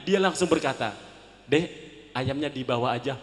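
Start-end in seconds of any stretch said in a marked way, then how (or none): 1.5-3.2 gentle tone. Retold or imitated. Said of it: "Dengan lembutnya".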